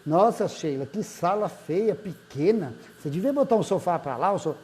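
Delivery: mildly acted put-down, dragging the insult; crítica invejosa. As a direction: criticize with a touch of envious disdain. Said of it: "esse modo e essa maneira de falar é a, o criticar da inveja". (crítica destrutiva, com leve desdém)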